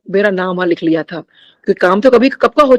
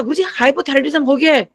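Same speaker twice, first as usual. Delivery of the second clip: raised pitch, imitating speaking up without real volume; retold forceful call; 5 semitones higher than usual. Devotee answering Guruji just as forcefully, retold raised voice. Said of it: "उतनी जोर से मैंने कहा".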